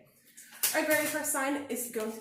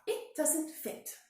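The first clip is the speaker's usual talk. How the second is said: puffed; 7 semitones higher, much slower than usual. A narrator's reading. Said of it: "she puffed".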